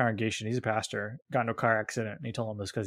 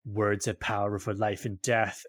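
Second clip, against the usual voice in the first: a lower, grave mock-preacher tone; solemn pronouncement; 3 semitones lower than usual. School staff member solemnly quoting scripture back at him. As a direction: hand down the verse like a solemn verdict. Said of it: "they looked at me and they're like".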